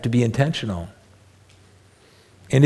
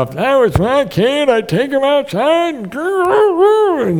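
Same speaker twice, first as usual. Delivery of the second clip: much higher busybody mom voice; judging mom; 11 semitones higher, 3 dB louder, slower than usual. Retold or imitated. Meddling mom to a struggling parent, high mock voice. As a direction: mimic a know-it-all mother. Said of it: "I have moms will come in and say".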